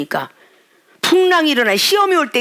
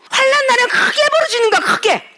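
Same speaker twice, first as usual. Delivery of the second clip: impassioned cry; 12 semitones higher than usual. Real, not acted. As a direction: plead with the congregation. Urging loud prayer. (높고 힘차게 외치듯)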